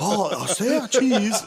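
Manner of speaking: high, laughing, slowed mock voice; laughing mock quote. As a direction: squeal it out through laughter, mocking. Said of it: "at least one person in Japan said".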